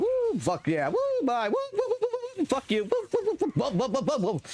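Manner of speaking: high excited gamer whoops; real gaming hype whoops; excited whooping. Real, not acted. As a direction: cheer like you just won the fight.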